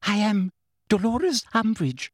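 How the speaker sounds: high, frightened official voice; pompous but terrified, pitched high. A narrator's reading. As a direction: introduce yourself in a high, scared voice. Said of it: "in a high-pitched, terrified voice".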